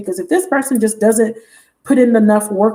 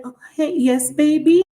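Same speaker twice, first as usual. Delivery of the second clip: mock cooing; 6 semitones higher than usual. Woman answering man calling her mommy.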